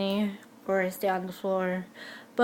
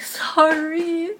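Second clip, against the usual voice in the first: sheepish sorry; 8 semitones higher, 5 dB louder than usual. Retold or imitated. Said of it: "I'm like".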